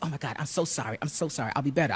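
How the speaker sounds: hushed, acted-out remorse; contrite apology. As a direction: play a mother hastily backing down.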